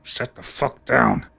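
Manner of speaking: slow menacing order. Acted. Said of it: "he goes".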